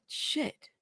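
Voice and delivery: a muttered curse under the breath; whispered curse. Real, not acted. Host can't find the screenshot on stream, whispered curse.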